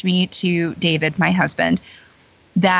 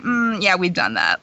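unimpressed brush-off. Retold or imitated. Belle turning down a tavern invitation, unimpressed. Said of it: "she's like".

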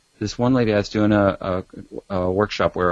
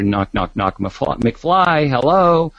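movie bully impression; 4 semitones higher, slower than usual. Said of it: "that scene from, um, Back to the Future".

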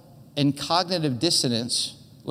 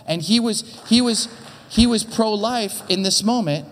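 rising louder on each he was; building emphasis, louder as it goes; emphatic build; 3 semitones higher, 4 dB louder than usual. Real, not acted. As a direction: press harder each time you restart. Emphasizing the coach's stance.

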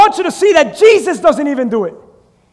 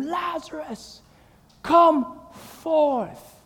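call; 10 dB quieter, much slower than usual. Acted. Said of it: "as he screams at the tomb".

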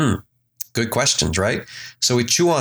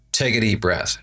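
walk the listener gently through breath and release; a meditation teacher easing you into relaxation; guided meditation. Acted.

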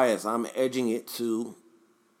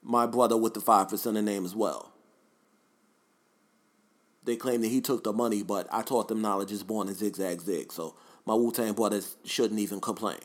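lightly voiced rap-sage impression; mock-wise, self-justifying imitation; a rapper. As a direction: carry on as the philosophizing leader of a rap group. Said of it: "My riz impression".

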